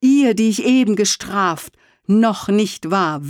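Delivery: höher, flehender Ausruf; ausgerufen. Acted. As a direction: ruf die Entschuldigung emphatisch hinaus. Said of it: "rief er". (mit erhobenen Händen hoch ausgerufen)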